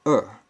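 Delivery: er in the fourth tone, falling sharply and said outright. Shown as a demonstration. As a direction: snap er straight down with no reservation. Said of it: "there is no such reservation".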